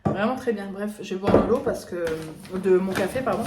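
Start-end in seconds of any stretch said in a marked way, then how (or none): 2.5-3.2 words around a sip of coffee; talking mid-sip; while sipping a drink. Real, not acted. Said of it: "Excusez-moi, je bois mon café en même temps".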